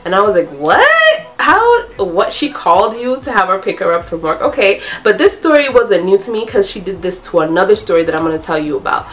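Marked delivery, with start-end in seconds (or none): 0.7-4.4 shocked. Retold or imitated. Shocked at friend's betrayal.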